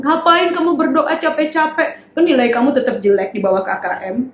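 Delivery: lightly voiced mocker discouraging a child; a hint of a discouraging mocker. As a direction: taunt the child gently. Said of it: "Kalau sekarang bilang".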